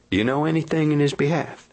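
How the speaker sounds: mock-confidential question; confidential judge voice. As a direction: play the judge asking man to man. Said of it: "you says to me, says you, confidential like".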